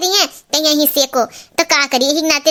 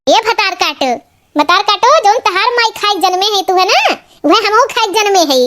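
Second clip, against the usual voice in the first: higher-pitched scolding comeback; indignant retort; 4 semitones higher, 3 dB louder than usual. Acted. Mother-in-law answering the mocking song, indignant retort. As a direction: throw the insult back, affronted.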